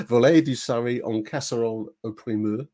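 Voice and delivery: amateur French accent with laughter breaking through; laughing French accent. Shown as a demonstration. Host reading the main course to listeners, giggly French accent. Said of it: "my French accent is gonna be suffering".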